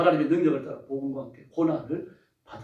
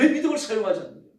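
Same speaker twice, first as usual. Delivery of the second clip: scolding; 5 semitones higher, 4 dB louder than usual. Acted. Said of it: "이건 야단치는 거예요".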